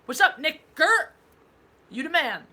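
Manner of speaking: loud, high, drawn-out greeting; big hype for a fan; hyped shout-out. Real, not acted. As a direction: call it out big and slow. Giving a requested shout-out.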